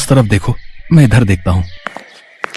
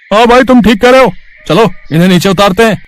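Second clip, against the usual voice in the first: thief's voice; 9 semitones higher than usual. Acted. One thief agreeing to take the cows, in a much higher voice. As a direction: pitch the sidekick thief way up.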